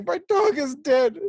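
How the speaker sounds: high-pitched fake wail; hammed-up tearful cry, pitched high; mock crying. Mimicking the hero trying to cry on cue, mock wailing. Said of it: "how do you people cry?".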